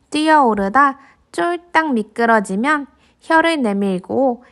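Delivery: gentle storybook narration; reading to a toddler. A narrator's reading. Narrating picture book to kids.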